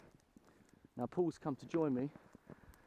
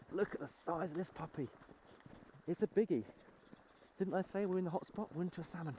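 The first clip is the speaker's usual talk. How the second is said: excited; 5 semitones higher than usual. Real, not acted. Hooking a big salmon.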